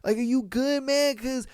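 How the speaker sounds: high, nervous calming voice; a scared friend trying to calm him down; pleading friend. Retold or imitated. Friend begging his armed buddy to chill, high and nervous. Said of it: "And it's like".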